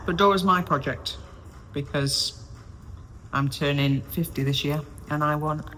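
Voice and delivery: eating while talking; talking through a bite of food; mouth full. Real, not acted. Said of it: "I need to stop talking and eating".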